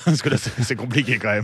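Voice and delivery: said through a light laugh; amused. Real, not acted. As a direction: chuckle while admitting it's complicated. Rit devant la complexité des chiffres. (amusé, en riant)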